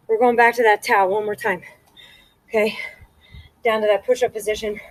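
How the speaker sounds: breathless after exercise; panting out of breath. Real, not acted. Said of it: "You can clearly hear I'm out of breath".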